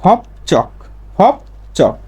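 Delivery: ফপ চক said in separate syllables, ch for j; changed consonant. Shown as a demonstration. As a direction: model ফপ চক with a hard ch. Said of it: "তাহলে উচ্চারণ হবে". (ফপ চক, ভেঙে ভেঙে চ দিয়ে)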